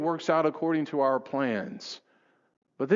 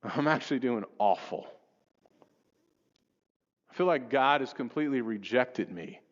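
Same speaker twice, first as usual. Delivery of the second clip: despairing confession; 2 semitones lower than usual. Retold or imitated. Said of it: "they just unleash on you".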